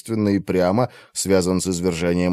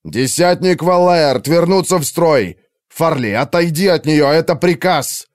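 commanding order; 6 semitones higher, 3 dB louder than usual. Acted. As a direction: order them back into line. Commander orders soldiers back. (командир приказывает вернуться в строй)

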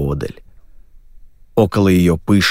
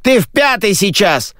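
backstage scolding; 12 semitones higher than usual. Acted. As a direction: bark at the worker from the wings.

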